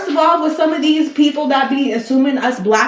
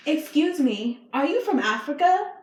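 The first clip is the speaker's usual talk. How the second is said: imitating the girl; 5 semitones higher, 5 dB quieter than usual. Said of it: "and she's like".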